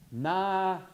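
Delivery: Na-yaji broken into syllables, falling; Lakota word said slowly. Shown as a demonstration. Teacher drilling Lakota to class, slow syllables. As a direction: sound out Na-yaji slowly for students. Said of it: "You're gonna notice me saying it over and over".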